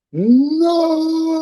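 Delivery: sudden high shout of no; screamed no. Retold or imitated. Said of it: "And I scream out".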